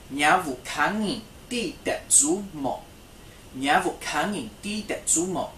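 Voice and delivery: slow, careful model question; slow classroom question demo. Shown as a demonstration. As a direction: stress the final mo for learners. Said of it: "add the question word at the end".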